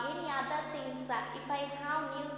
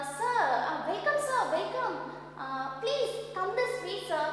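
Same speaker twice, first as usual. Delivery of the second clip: acted fawning welcome; 4 semitones higher, 3 dB louder than usual. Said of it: "gods are speaking like that".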